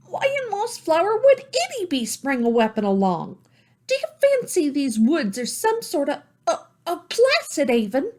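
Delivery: put-on high, indignant girl's retort; angry young girl. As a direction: snap back, offended. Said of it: "Salome's temper rose".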